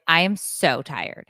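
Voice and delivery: slow, emphatic tired complaint; imitated exhaustion. Daughter home from first shift, slow tired complaint. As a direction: drag it out with a touch of weariness.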